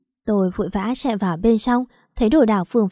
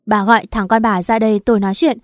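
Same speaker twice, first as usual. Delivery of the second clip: furious scolding, moderately raised; loud angry tirade. Acted. Ly shouts at Đạt's mother through the shut door, angry. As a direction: pound the door and bark it out, slightly louder. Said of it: "mà nói lớn".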